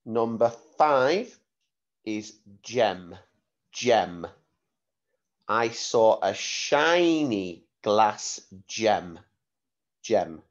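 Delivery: put-on slow, careful dictation for children; slow school dictation. Shown as a demonstration. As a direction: read the sentence slowly for the class. Spelling test dictation.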